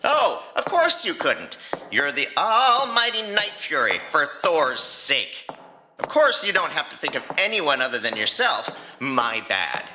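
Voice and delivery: mock the almighty Night Fury; sarcastic. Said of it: "Is he being sarcastic?".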